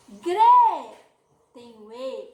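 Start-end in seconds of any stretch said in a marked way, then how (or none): 0.1-1.0 Gre punched much louder; stress on Gre. Shown as a demonstration. Teacher to kids, punching the syllable Gre. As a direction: hit the syllable Gre hard. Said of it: "teacher stressing syllable".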